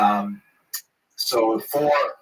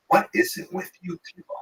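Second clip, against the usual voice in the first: higher, exasperated question; mock exasperated Moshe; 8 semitones higher than usual. Moshe to the man, exasperated and higher. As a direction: throw up your hands at them. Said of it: "Moshe looks at him and says".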